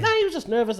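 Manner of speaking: light high soothing woman's voice, lightly voiced; a hint of Sharon cooing to calm him; imitating Sharon. Sharon defending the guy.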